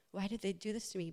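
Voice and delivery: a quiet self-pitying question; victim whine. Retold or imitated. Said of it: "a little bit more like".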